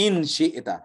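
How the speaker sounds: ইনশিইতা with a long ee, said the everyday Arab way; Arab pronunciation. Shown as a demonstration. Teacher contrasts Arab speech with recitation. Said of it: "আরবরা যদি বলে তাহলে".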